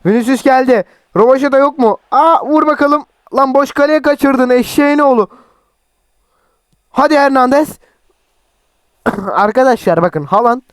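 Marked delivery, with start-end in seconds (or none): 0.1-7.8 excited commentary. Real, not acted. Missing an open goal, heated higher commentary. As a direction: yell at the miss.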